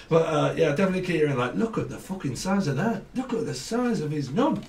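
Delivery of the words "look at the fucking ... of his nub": lightly put-on northern English accent; mock northern lilt. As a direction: imitate someone from up north. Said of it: "someone with an accent, though, that speaks a little bit like that".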